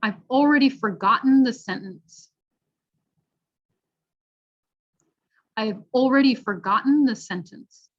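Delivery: "shorten" and "curtain" with throat-stopped T; careful teaching read; glottal T sentence. Shown as a demonstration. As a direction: model sentence with swallowed T. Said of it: "repeat after at home".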